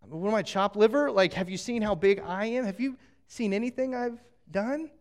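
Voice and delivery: a hint of an indignant God, lightly done; playfully voicing God. God teasing the doubting people, mock indignant. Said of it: "And God's like".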